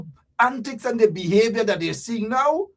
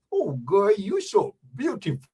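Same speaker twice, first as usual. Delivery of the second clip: crooning mock Bajan flattery; Bajan man. Bajan man admiring a girl, crooning Bajan accent. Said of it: "Or you get a Bajan man".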